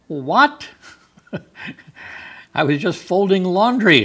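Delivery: high, surprised little cry with a laugh; startled Mary. Pretend. Mary startled by the angel while folding laundry, surprised. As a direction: play Mary caught mid-chore, startled.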